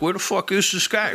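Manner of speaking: where is he, fed up and amused; exasperated. Retold or imitated. Cop waiting for a no-show suspect, exasperated laugh. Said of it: "I'm like".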